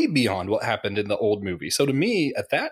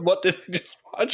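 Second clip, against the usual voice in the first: higher, rising and thrilled; a wowed fan, excited and rising; delighted amazement; 8 semitones higher than usual. Retold or imitated. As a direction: say it like the best surprise ever. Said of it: "Is that a good".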